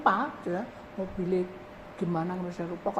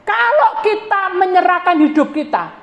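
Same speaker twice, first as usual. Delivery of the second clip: high, loud preacher's cry; full-force preaching; preaching proclamation; 11 semitones higher, 17 dB louder than usual. Real, not acted. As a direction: proclaim it to the whole hall.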